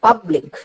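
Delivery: "പബ്ലിക്" with പബ് stressed; stress on first syllable. Shown as a demonstration. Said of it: "പബ് എന്നുള്ളതിനെയാണ് കൂടുതൽ ഉറക്കെ നമ്മൾ ഉച്ചരിക്കുന്നത്". ("പബ്ലിക്" എന്നതിൽ പബ് ഊന്നിപ്പറയുക)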